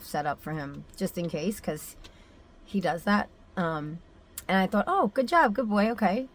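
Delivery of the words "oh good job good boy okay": high-pitched retold praise; praising a dog.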